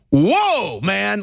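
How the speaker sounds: high, drawn-out whoa of disbelief; stunned whoa. Real, not acted. Stunned outburst at hypocrisy he describes.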